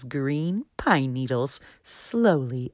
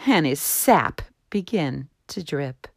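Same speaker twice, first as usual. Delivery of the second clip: gentle read-aloud storytelling; story narration; 3 semitones lower than usual. A narrator's reading. Narrator reading a children's tree story aloud, gentle.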